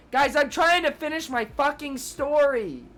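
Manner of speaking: fake-annoyed outburst; mock exasperation. Real, not acted. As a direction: scold the chat jokingly. Chat keeps interrupting her story.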